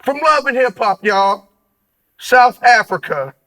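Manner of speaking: big, drawn-out announcer intro; punchy hype with the key words stretched; hyped show intro. Acted. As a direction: introduce the guest like a ring announcer.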